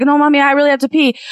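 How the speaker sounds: put-on little boy. Little boy voiced in joke.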